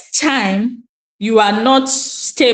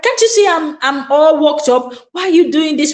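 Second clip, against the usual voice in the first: higher-pitched, exasperated retold outburst; worked-up mother; 5 semitones higher than usual. Worked-up mother to her daughter asking questions, mock exasperation. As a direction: act out losing patience, without shouting. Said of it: "sometimes I lose it".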